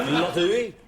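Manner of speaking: "Lottery?" said with a mock French accent, laughing; a quick laughing try at French "Lottery?". Shown as a demonstration. Panellist trying French accent on "Lottery?". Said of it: "say it in a sort of French accent".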